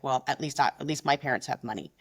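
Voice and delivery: imitated offhand dig, low pitch; nonchalant passive-aggression. Shown as a demonstration. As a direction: drop the jab as if it were nothing. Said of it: "something that's really nonchalantly said".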